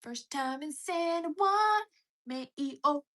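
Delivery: hammed-up announcer. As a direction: read the shoutout like a grand host. Reading shoutouts in put-on voice.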